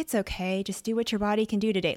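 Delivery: gentle soothing yoga-teacher tone. Speaker describes people who go easy on themselves, imitating a gentle zen yoga voice. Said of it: "gentle, forgiving, zen yoga voice".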